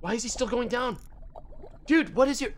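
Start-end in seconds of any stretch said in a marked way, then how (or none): 1.9-2.5 high, drawn-out angry yell; exasperated shout. Real, not acted. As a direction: bellow in frustration at a pest. Fly bothers him while fishing.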